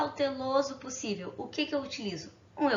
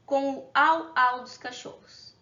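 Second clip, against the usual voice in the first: latido imitado; slower than usual. Shown as a demonstration. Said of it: "esse au-au imitando o quê?".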